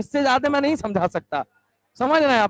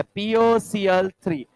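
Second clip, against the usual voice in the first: drawn-out answer; 3 semitones lower, much slower than usual. Shown as a demonstration. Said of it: "teacher stresses product".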